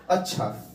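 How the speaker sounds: अच्छा low and soft, falling at the end; plain statement. Shown as a demonstration. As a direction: say अच्छा as a quiet, settled statement. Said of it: "सामान्य एक कथन है".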